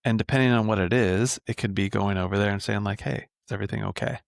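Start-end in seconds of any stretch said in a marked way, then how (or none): 3.0-4.2 soft, quick, casual concern; calm check-in. Acted. Parent checking on an upset kid, calm. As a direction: check in gently and lightly. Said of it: "you are in a calm voice".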